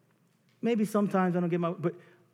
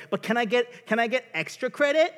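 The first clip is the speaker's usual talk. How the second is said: high pleading ask; lightly voiced keen pupil; eager student; 7 semitones higher, 5 dB louder than usual. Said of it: "that student that's like".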